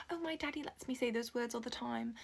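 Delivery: roughly imitated Australian accent; terrible Australian accent. Camp counselor imitates visiting girl from Australia, mock Australian accent. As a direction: put on a bad Australian accent. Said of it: "probably a terrible Australian accent".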